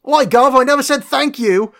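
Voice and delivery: high, loud, terrible Chicago-accent impression; bad Chicago accent. Podcaster mocking an actor's terrible accent in a film, bad Chicago accent. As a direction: put on a hammed-up Chicago accent, pitched high. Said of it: "Gary Oldman. That's a Chicago accent".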